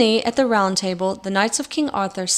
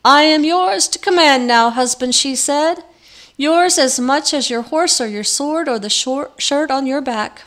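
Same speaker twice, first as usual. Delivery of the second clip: higher, louder gleeful crone; mocking hag; 5 semitones higher, 5 dB louder than usual. A narrator's reading. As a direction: gloat like a triumphant hag. Hag taunts her husband.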